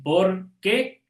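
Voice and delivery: "Por qué" split into two distinct words; separated words. Shown as a demonstration. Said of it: "Totalmente separado".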